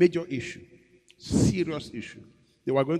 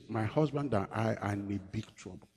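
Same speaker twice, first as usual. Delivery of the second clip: troubled wife; 5 dB quieter than usual. Retold or imitated. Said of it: "He said".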